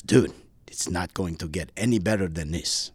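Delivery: imitated Greek-accented nudging; heavy Greek accent. Instructor nudging his student at the cliff, heavy Greek accent. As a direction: coax in a mock Greek accent. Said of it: "in a very heavy accent".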